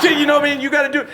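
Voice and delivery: laughing through the words, high and loud; laughing at his own close call. Real, not acted. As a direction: crack up while telling it. Laughing retelling of fleeing.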